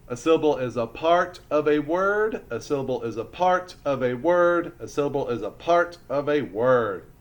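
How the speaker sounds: rhythmic classroom recitation, punching the key words; steady, emphatic repeat-after-me delivery; recited definition. Shown as a demonstration. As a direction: chant it like a drilled rule. Class definition recited three times.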